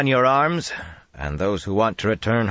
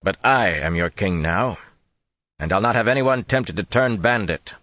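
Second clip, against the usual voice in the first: booming voice; 4 semitones higher than usual. Acted. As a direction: carry the words to hidden men. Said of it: "so they boomed against the wall".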